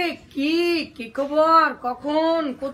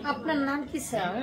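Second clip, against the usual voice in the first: softly respectful "আপনার নাম কি, sir?"; quiet courteous question to an elder; polite and soft; 5 dB quieter than usual. Shown as a demonstration. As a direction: ask "আপনার নাম কি" gently, with deference. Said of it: "যখন ভদ্র হবে, সম্মানিত হবে".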